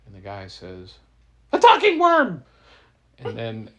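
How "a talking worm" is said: very high, very loud shriek of astonishment; shocked scream. Acted. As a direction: scream it as if the impossible just spoke. Man discovers a worm talks.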